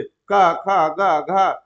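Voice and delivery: letters run together in one monotone rhythm; wrong way, sing-song. Shown as a demonstration. Teacher shows how not to recite letters, monotone run. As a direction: rattle off क, ख, ग, घ in one tune. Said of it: "आप ऐसे मत बोलिए".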